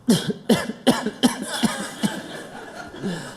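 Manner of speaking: coughing on smoke; smoker's hacking cough. Acted. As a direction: cough it out after a hit. Coughing after smoking.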